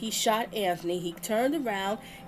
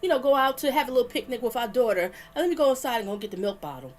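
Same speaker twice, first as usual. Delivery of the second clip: much higher, fast, breezy mock of a careless man; mocking impression; 4 semitones higher, 3 dB louder, much faster than usual. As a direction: ham up his carefree tone with a laugh. Mocking the killer's casual attitude.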